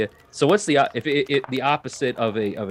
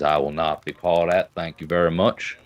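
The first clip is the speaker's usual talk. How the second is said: put-on Georgia accent; 3 semitones lower than usual. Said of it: "In that real thick Georgia accent".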